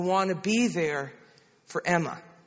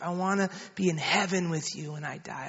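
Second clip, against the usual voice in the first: retold prayer line, soft and measured; lightly voiced mother leading in prayer; 3 semitones lower, 6 dB quieter than usual. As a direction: give the line quietly for repeating. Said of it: "You just pray after me".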